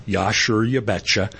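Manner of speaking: light Minnesotan lilt, a touch low; Minnesota accent. Acted. Quoting a helpful local, in a light Minnesota accent. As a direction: put on a folksy Minnesota accent. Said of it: "somebody who was Minnesota nice".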